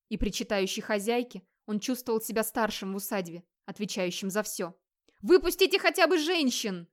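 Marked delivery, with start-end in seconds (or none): 5.2-6.9 much higher, louder shout at the gates; yelling over the fire to the enemy; loud desperate yell; bellowing. Acted. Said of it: "заорал он".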